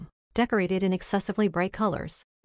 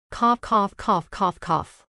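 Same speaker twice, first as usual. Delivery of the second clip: violent coughing; slower than usual. Retold or imitated. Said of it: "causing him to cough violently".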